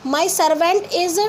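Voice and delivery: very slow, word by word dictation. Shown as a demonstration. Teacher dictating the sentence slowly to pupils. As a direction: read each word out slowly. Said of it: "अब देखिए ऑनेस्ट".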